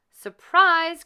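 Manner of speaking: high loud surprise shout; spring the surprise; cheery shout. A narrator's reading. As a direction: mice surprising Cinderella. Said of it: "cried the mice".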